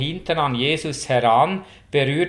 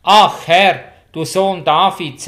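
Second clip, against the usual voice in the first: a raised, pleading cry of "Herr"; 3 semitones higher, 7 dB louder than usual. A narrator's reading. Canaanite woman begging Jesus for her daughter, crying out. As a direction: call out to Jesus, begging for help. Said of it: "schrie Jesus nach".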